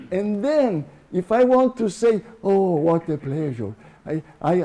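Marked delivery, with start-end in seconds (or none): 2.4-3.7 projected delight, voice reaching out; projected exclamation. Shown as a demonstration. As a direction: exclaim it out toward a far-off fire. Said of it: "I will keep the same volume".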